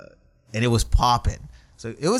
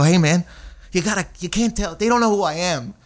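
put-on higher, urgent drunk plea; pleading; 4 semitones higher than usual. Comic begging the drummer to stop calling him a comedian, higher urgent plea. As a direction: beg him to stop the hype, worked up.

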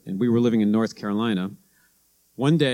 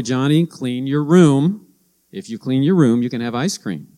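mom telling son; 2 semitones higher, 5 dB louder than usual. Retold or imitated. Mom instructing her son.

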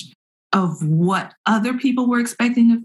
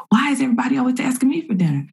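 higher, quick retold inner complaint; acted exasperated self-talk; 5 semitones higher, much faster than usual. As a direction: voice your harried thoughts, quickly and higher. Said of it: "in my head is this conversation".

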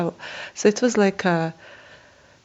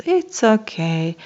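calm cleaner; 3 semitones higher, slower than usual. Retold or imitated. Cleaner calming her down.

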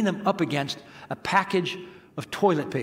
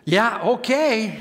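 sheepish concession; 4 semitones higher, much slower than usual. Retold or imitated. Speechless response to wife's confession.

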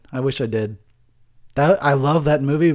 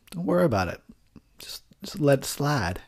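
whispering; 4 dB quieter than usual. Real, not acted. Quiet aside.

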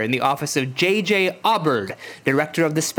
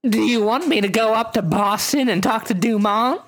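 secret agent; 5 semitones higher than usual. Acted. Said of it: "I gotta pick a really cool spy voice".

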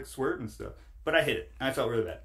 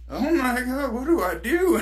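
high, louder flustered outburst; mock panic; 10 semitones higher, 6 dB louder than usual. Telling podcast host about a staring stranger, mock panic. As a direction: play up the awkward panic, pitched high. Acted panic at stall stare.

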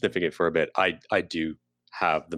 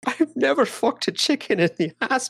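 breathy secret whisper. Acted. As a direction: lean in and whisper it to your friend. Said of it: "whispered aside to companion".

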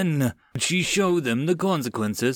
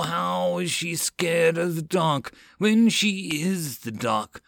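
possessed voice; 4 semitones higher than usual. Acted. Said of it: "spoke as if she was possessed".

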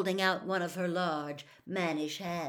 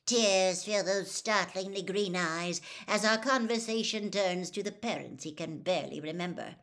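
louder, syrupy tabloid dictation; gushing dictation; 3 semitones higher, 4 dB louder than usual. Acted. Reporter dictates a tearful line about Harry to her quill. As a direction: purple prose spoken for print.

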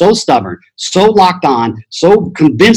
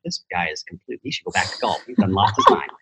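mock doubting listener; 6 semitones lower, 9 dB quieter, faster than usual. Imagined listener doubting him.

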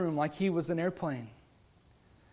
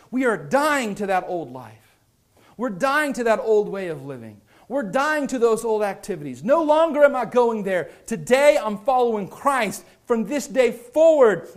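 emphatic preaching; 3 semitones higher, 7 dB louder than usual. Real, not acted. Preacher builds to a declaration.

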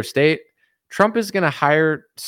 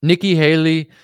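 slow mock compliment, name punched; hammed-up politician's welcome, swelling at the end; Trump impression; 2 semitones lower, 5 dB louder, slower than usual. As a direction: drag out the nickname with relish. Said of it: "he was, like, complimenting her".

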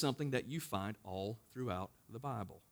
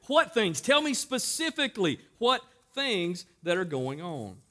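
"What things?" louder and higher, pressing for an answer; pressing question; 4 semitones higher, 4 dB louder than usual. Acted. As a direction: push "What things?" out firmly, raised. Jesus presses for specifics.

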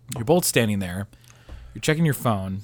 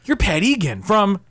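halting, higher-pitched mock amazement; lightly acted starstruck recognition; 4 semitones higher than usual. Stranger recognizing Pat Egan, mock starstruck and halting. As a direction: stammer it out as a fan spotting an idol.

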